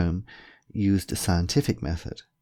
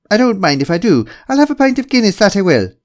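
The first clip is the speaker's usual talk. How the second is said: very high, loud stage-Irish; hammed-up Irish brogue, ringing out; fake Irish accent; 12 semitones higher, 9 dB louder, faster than usual. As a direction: overdo a jolly Irish lilt. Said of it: "Why are you pretending to be Irish?".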